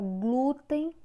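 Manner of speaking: glúten with GLÚ pushed a little harder; stress on first syllable. Shown as a demonstration. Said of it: "o glu é que tem uma força maior".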